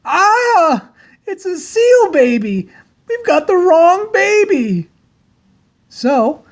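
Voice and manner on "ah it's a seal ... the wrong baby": yelled. A narrator's reading. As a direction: cry out in alarm, dragging the words. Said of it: "He yelled".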